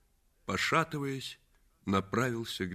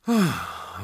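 short, raised sigh of "ah"; exclaiming; 4 semitones higher, 4 dB louder than usual. Acted. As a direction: let out a regretful exclamation. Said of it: "воскликнул Паркер Пайн". (восклицая)

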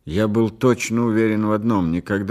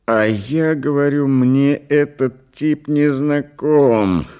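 loud, high, slow-hammered outburst; heated, raised-voice protest; angry insistence; 6 semitones higher, 6 dB louder, slower than usual. A narrator's reading. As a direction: shout it to be believed, drawing out the end. Patient loudly insists he's a stranger.

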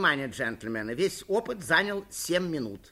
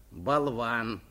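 drawn-out, gloating insult; low gloating jab; 5 semitones lower than usual. A narrator's reading. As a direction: savour it with malicious glee. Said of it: "злорадно произнёс Суханок".

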